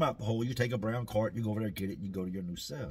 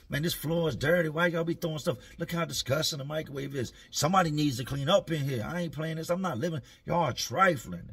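raised, higher nagging complaint; mock complaining; 4 semitones higher, 4 dB louder than usual. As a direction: fuss about the mess like a neat freak. D complaining about the pod.

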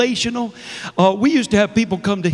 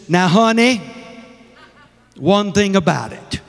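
deep South mother-in-law. Retold or imitated. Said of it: "my mother-in-law's from the deep South".

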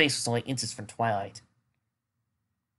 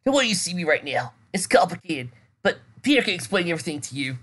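hesitant; 5 semitones higher than usual. Acted. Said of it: "her friend's hesitant tone".

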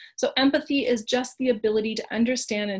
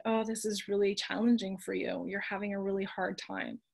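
soothing therapist voice; 6 dB quieter than usual. Shown as a demonstration. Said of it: "speak to yourself in her voice of empathizing and validating".

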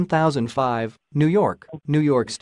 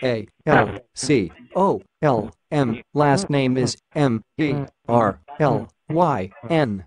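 slow, spelled-out robot voice; automatic machine voice. Pretend. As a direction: spell it like an automated phone menu. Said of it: "Why are you trying to speak like an automatic machine?".

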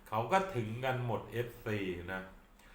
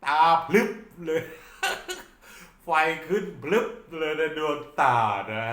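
loud, high burst of excitement; bursting with glee at the image; excited exclaim; 5 semitones higher, 7 dB louder than usual. Retold or imitated. Excited eyes light up. (ตื่นเต้นตาเป็นประกาย)

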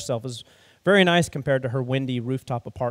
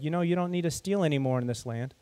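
soft, kind reassurance, much softer; gentle voice; 6 dB quieter than usual. Acted. The stranger reassuring the girl outside the restaurant, gentle and soft. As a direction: ease her fear, gently. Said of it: "the man with the gentle voice".

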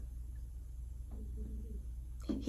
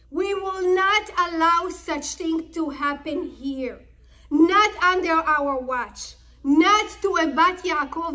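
indignant sons; 3 semitones higher than usual. Retold or imitated. Sons answering their father.

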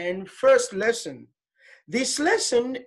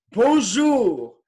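loud model word for the class; 6 dB louder than usual. Shown as a demonstration. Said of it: "Okay, together".

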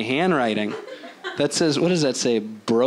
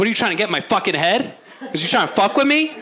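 fast, rising mock aggression; hammed-up tough-guy challenge; mock confrontation; 5 semitones higher, faster than usual. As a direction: get in his face, half joking. Acted angry confrontation quote.

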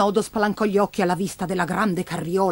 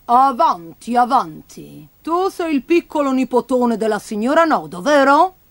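lightly voiced shopkeeper welcoming a child; lively storybook shopkeeper; shopkeeper figure, welcoming; 3 semitones higher than usual. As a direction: usher the boy in with a questioning lift at the end.

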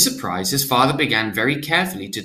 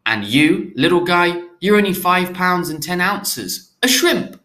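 put-on higher, cooing baby talk; special baby voice; 6 semitones higher than usual. A narrator's reading. Father coos to the tiny newborn, higher baby talk. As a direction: coo at the newborn in a sing-song voice. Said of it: "That's the special voice he uses with Gabriel".

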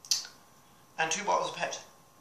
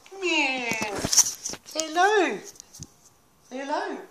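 pet talk; 10 semitones higher, 4 dB louder, slower than usual. Real, not acted. Cooing at the dog.

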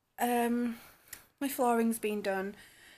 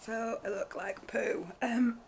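strangled voice; 3 dB quieter, slower than usual. Real, not acted. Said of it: "that was a bit of a strangled voice".

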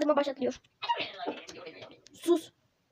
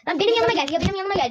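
calling out; 3 semitones higher, faster than usual. Real, not acted. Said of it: "Bağırıyorum sana bak".

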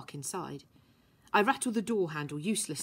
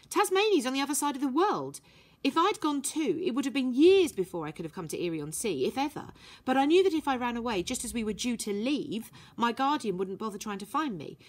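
put-on higher girl's voice, pointed and defiant; girl's voice, challenging; 4 semitones higher than usual. Violet to Herbie about trust, a defiant girl's voice. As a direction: chin out, daring him to doubt her.

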